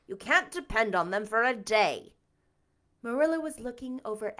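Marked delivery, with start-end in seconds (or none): 0.1-2.1 disgusted. Acted. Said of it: "said Marilla in disgust".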